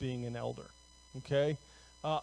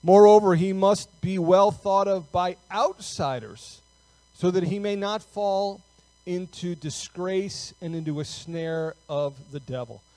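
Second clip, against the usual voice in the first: firm, measured Bible reading, slightly raised; scripture reading; 5 dB louder than usual. Real, not acted. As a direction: read the verse out deliberately to the congregation. Reads scripture aloud to congregation.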